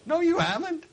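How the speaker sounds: high, loud snap; sharp retort. Real, not acted. Preacher rebuking the boaster, high and loud. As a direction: cut the boast off hard.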